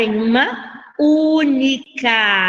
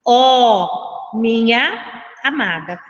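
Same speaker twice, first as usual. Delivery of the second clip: slow, deliberate reading of a verse; much slower than usual. Shown as a demonstration. Teacher reads the first verse to the class, slow verse reading. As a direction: read it out with space between phrases. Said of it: "diz assim".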